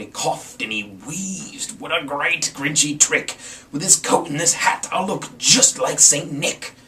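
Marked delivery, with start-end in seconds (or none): 1.8-6.7 gleeful. Acted. Grinch gloating.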